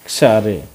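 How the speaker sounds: क्स रे with a clipped ks, no vowel before it; teacher's x-ray model. Shown as a demonstration. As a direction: say क्स रे, not एक्स रे. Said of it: "आधा क और स आता है".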